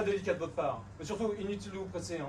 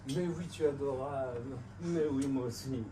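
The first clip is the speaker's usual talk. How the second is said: tender; 5 semitones lower, slower than usual. Acted. Secret lover on the phone.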